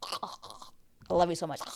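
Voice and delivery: slow, mock-smitten confession; slow parody of instant adoration; mock lovestruck gushing. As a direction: play her suddenly besotted, drawn out. Mock gushing two minutes later.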